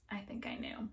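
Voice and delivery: soft, breathy whisper, almost to herself; muttered quietly. Acted. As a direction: whisper the admission to yourself. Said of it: "She muttered quietly".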